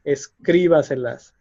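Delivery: Escríbaselas said es-CRÍ-ba-se-las; stress fourth from end. Shown as a demonstration. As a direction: hit CRÍ in "Escríbaselas", then let the rest follow unstressed. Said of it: "is the fourth syllable from the end".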